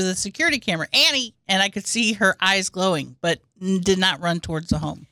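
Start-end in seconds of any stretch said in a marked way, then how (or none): 0.9-1.3 calling a dog. Retold or imitated. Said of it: "started yelling through".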